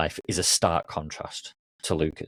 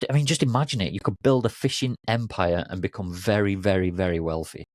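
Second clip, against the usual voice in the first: a little frustrated; 3 semitones higher than usual. Acted. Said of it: "getting a little frustrated".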